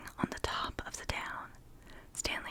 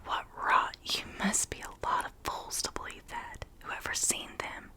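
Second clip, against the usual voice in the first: scornful; 4 dB louder than usual. Acted. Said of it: "Stanley was scornfully and bitter".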